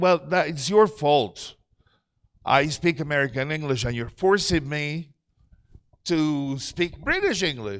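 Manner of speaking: ordinary talk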